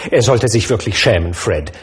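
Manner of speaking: a touch of indignation; mildly scolding the absent uncle; understated outrage; indignant. Acted. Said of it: "sagte Scrooges Nichte empört".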